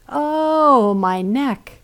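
high wailing "Oh" that falls back; hammed-up lament; mock wailing. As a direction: moan it like a tragic lament. Ereshkigal wails again.

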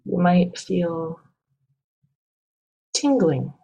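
calm, measured meditation guide with long pauses; guided meditation. Acted. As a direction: guide listeners gently, leaving space between phrases.

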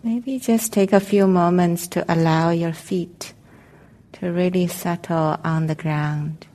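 calm, unhurried meditation guidance with long pauses; guided meditation. Real, not acted. Meditation teacher helping the group settle into their seats, calm guided meditation. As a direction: guide them gently into arriving, leaving space between phrases.

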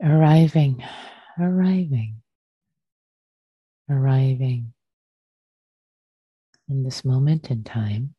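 unhurried guiding voice with long pauses between phrases; guided meditation. Real, not acted. Teacher settles friends into shared practice, guided meditation. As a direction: ease listeners into stillness, phrase by phrase.

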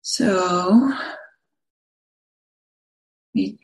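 unhurried phrases with long pauses between them; guided meditation. Acted. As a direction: guide listeners gently into the body, leaving space after each phrase.

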